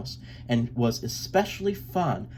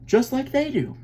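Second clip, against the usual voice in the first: smiling; 12 semitones higher than usual. A narrator's reading. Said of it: "Mama said with a smile".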